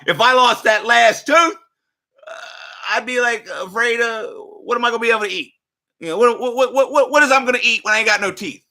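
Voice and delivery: high, loud, laughing worry; mock panic through laughter. Imagining losing his last tooth, laughing mock panic.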